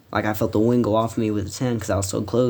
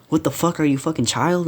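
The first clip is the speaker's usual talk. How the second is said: higher-pitched, incredulous challenge; indignant retort; 6 semitones higher than usual. Retold or imitated. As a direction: retell it as an exasperated comeback. Retold quarrel, challenging his friend.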